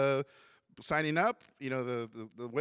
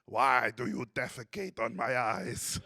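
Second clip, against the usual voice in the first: stern teacher; 3 semitones lower, slower than usual. Retold or imitated. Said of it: "literally goes".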